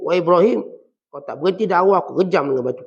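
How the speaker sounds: mildly acted rough warning; harsh threatening father. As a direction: threaten the son with some force. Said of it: "Ayah dia guna bahasa kesat".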